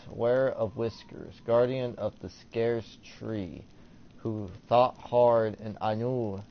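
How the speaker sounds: measured, ceremonial reading aloud; formal inscription reading. Acted. Player reading ancient hieroglyphics aloud, formal and measured. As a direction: read out the titles slowly, with care.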